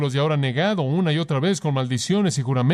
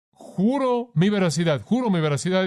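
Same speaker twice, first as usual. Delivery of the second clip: Peter swearing; 5 semitones higher than usual. Retold or imitated. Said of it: "él dice".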